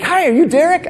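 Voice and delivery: very high-pitched greeting; imitated female date. Comedian voices his date at the door, high-pitched greeting. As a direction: put on a high girlish hello.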